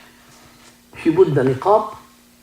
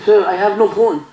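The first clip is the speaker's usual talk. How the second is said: laughing; 6 semitones higher than usual. Retold or imitated. Woman pleading, laughing teller.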